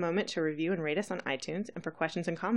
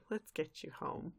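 gently reassuring; 12 dB quieter than usual. Retold or imitated. Recapper plays a pony comforting her sick friend, gentle. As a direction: soothe quietly.

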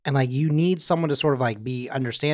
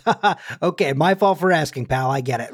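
laughing it off. Retold or imitated. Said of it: "he kind of laughs it off".

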